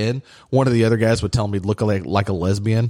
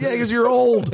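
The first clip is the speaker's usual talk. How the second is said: laughing tease; 13 semitones higher than usual. Retold or imitated. Mocking old coworker, laughing.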